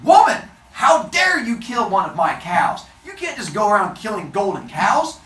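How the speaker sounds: hammed-up angry yelling; loud, high, scolding outburst; Apollo. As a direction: shout your outrage as an accuser. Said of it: "Apollo starts yelling".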